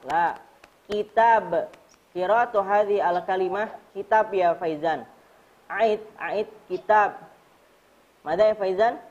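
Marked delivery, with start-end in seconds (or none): 0.8-1.5 "kitab" with a bouncing final b; qalqalah on kitab. Shown as a demonstration. Teacher correcting pupil's reading, qalqalah on "kitab". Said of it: "labudda alaika an tuqalqil faqat". 6.7-7.2 "kitab" with the final b released in a bounce; qalqalah on kitab. Shown as a demonstration. Teacher prompting pupil to repeat, qalqalah on "kitab". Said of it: "labudda alaika an tuqalqil faqat".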